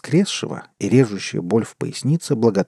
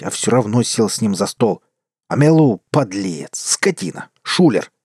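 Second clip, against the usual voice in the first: sputtering foiled villain. Acted. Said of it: "В бессильной ярости".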